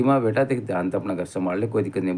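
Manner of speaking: put-on soft, kindly advice to a young woman; gentle coaxing. Advising the daughter at mediation, softly and kindly. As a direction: ease her into agreeing, softly.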